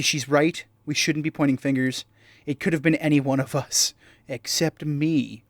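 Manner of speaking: lightly put-on British voice; British accent. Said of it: "he also should be way more British".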